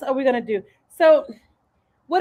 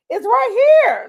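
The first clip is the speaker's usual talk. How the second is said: much higher, mock-exasperated reply; retold exasperation; 11 semitones higher than usual. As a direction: imitate a local setting a newcomer straight. Retold locals answering her confusion.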